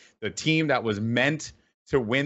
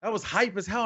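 mock excited fans; 10 semitones higher, faster than usual.

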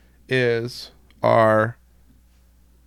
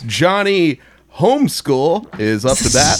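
baseball announcer voice. Pretend. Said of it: "that's the baseball announcer voice".

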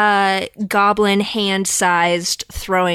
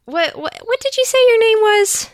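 sweet-talking voice; 13 semitones higher than usual. Acted. Fawning at goblin.

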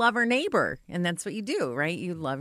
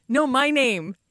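retold correction climbing into a high squeak; exasperated neighbor; 5 semitones higher than usual. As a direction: imitate the neighbor, pitch leaping up on the name. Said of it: "And the neighbor says".

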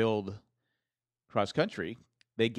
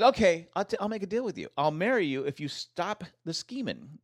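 voicing Maggie, higher; 6 semitones higher than usual. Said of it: "She says".

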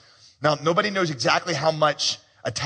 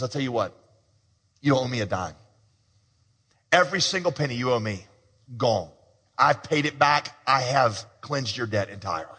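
tender forgiveness; 3 semitones lower than usual. Retold or imitated. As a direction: release him from the debt gently. Master forgiving the debt tenderly.

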